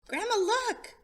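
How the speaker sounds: put-on a boy calling grandma to look; excited call. Child calls grandma.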